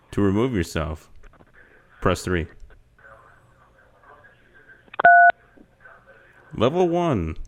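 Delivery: slow, even recorded-menu voice; automated phone menu voice. Acted. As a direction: read it like a phone system. Plays automated phone service.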